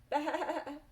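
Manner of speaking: long, wobbling high baa; sheep bleating. Acted.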